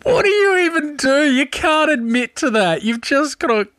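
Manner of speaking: high-pitched, talking through laughter; real laughing fit. Real, not acted. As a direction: try to keep commenting while cracking up. Still cracking up after the punchline.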